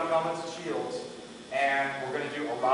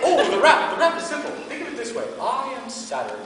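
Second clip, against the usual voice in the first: wise mentor; 9 semitones higher, 6 dB louder than usual. Retold or imitated. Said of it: "He said".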